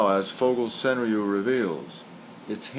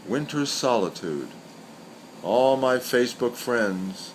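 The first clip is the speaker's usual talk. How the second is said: poem recital. Acted. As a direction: let each line of the poem hang before the next. Recites senryu twice.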